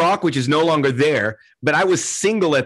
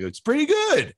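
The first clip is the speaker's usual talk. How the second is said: much higher mocking voice; mocking imitation; 12 semitones higher than usual. Mimicking people who make fun of the Keg, mocking. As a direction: mimic the scoffers in a high pitch.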